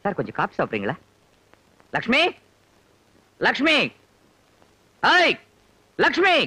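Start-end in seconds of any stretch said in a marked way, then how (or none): 2.0-6.4 authoritative calling. Acted. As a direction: call out bossily, climbing higher each time. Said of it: "யார நீ இவ்வளவு அதிகாரமா கூப்பிடுற?".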